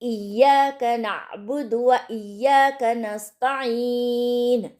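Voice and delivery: full verse recited slowly and carefully; slow recitation. Shown as a demonstration. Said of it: "पूरी आयत को एक साथ प्रैक्टिस करेंगे".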